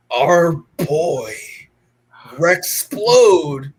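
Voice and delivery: half-joking dramatic announcement, dragged out slowly; mock serious deep voice. Podcast host jokingly announcing a returning character in mock-serious voice. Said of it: "I gotta get serious again with a deep, the deep tone voice".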